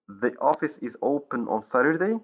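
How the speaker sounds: statement lifted into a question on "Saturday"; rising question intonation. Shown as a demonstration. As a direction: let "Saturday" rise at the end to check. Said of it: "by using rising intonation at the end".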